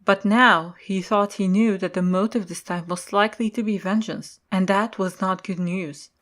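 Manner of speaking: normal talking voice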